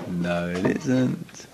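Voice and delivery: quiet, slow, final no; firm denial. Acted. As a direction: shut the excuse down calmly. Rebutting the Yetzer Hara's excuse.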